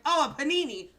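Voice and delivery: high, loud squealing "Oh, a panini!"; hammed-up breathless porn actress.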